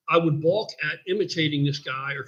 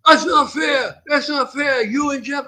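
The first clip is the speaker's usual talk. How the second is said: much higher, loud whiny protest; guy's protest voice; 9 semitones higher, 4 dB louder, slower than usual. Retold or imitated. Guy protesting to the gym owner, high loud whine. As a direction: shout it like an upset grown kid. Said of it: "So I'm gonna do it".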